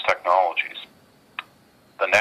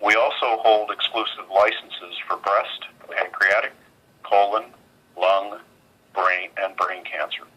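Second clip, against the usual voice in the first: on speakerphone. Real, not acted. Earnings conference call over phone.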